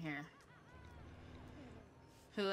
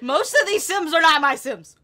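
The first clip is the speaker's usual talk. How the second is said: loud, high-pitched complaint; loud exclamation; 7 semitones higher, 15 dB louder than usual. Real, not acted. Player finds strangers among the sims, exclaiming loudly. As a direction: raise your voice in disbelief. Exclaiming at a crowded game scene.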